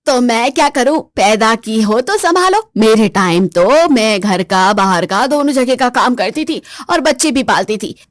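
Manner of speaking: mother-in-law brushing off her daughter-in-law; stern mother-in-law. Acted.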